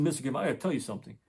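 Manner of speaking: quick, mildly excited retold news; hurried, understated imitation of an eager dad; excited retelling. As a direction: rush it out, with only a touch of excitement. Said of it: "in a very excited voice".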